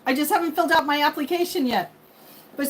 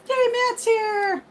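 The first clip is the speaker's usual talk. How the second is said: drawn-out cheer; 12 semitones higher, much slower than usual. Real, not acted. Cheering a viewer's arrival.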